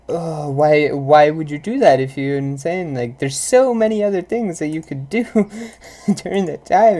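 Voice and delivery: loud, fed-up complaint to a loud chewer; exasperated rant. Retold or imitated. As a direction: huff it out, exasperated. Annoyed rant at someone chewing loud.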